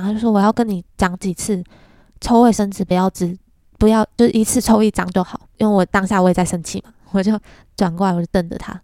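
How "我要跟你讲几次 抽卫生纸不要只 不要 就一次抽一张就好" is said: a touch of an angry mother scolding; retold scolding, a bit louder on 就一次抽一张就好; mild mock anger. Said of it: "她就生气嘛". (模仿妈妈生气地责备)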